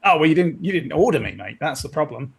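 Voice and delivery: argumentative, wobbly Cockney; attempted Cockney accent. Crewman tells officer he was never ordered, attempted Cockney accent. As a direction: argue back in rough Cockney. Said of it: "can you do the Cockney accent".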